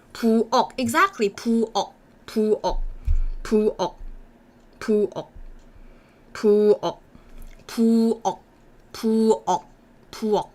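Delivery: "부엌" as two syllables, bu then eok with a stopped k; Korean 부엌. Shown as a demonstration. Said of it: "that means kitchen".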